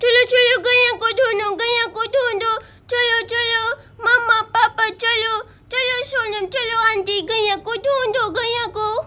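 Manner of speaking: put-on urgent little child. Child urges everyone find cow.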